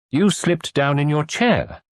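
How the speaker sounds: slow homely farm wife. Acted. Landlady character voice.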